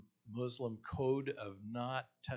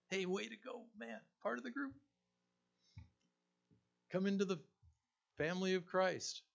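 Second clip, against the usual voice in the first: cheering; 9 semitones higher than usual. Pretend. Imagined cheering of new convert.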